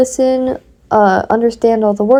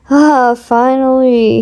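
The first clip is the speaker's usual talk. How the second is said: sighing; 2 semitones higher, 4 dB louder, slower than usual. Acted. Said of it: "he sighed".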